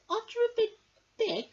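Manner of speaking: high, fast, pert little bee; clever little bee. Acted. Amelia the clever bee quizzes Norman, high and quick. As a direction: question him like a sharp little know-all. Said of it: "asked Amelia".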